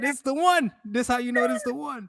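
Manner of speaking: high-pitched, gushing retold revelation; hammed-up excitement at finding true love; mock lovestruck. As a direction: act out being smitten, voice way up. Retold conviction of being in love.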